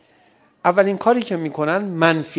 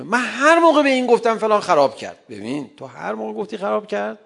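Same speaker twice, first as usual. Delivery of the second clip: mock complaining wife; 4 semitones higher than usual.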